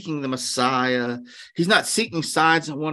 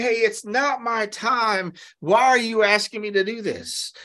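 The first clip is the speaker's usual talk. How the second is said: rebuffing his mom; 5 semitones higher than usual. Retold or imitated. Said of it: "he's rebuffing his mom".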